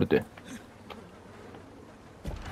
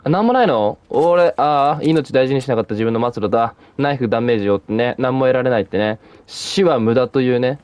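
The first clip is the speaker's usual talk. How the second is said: loud dramatic lament; 4 dB louder than usual. Real, not acted. Gamer moaning over an empty reward, loud and mock-dramatic. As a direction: proclaim your own moral loudly like a sermon. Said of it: "声が割れちゃってるわ".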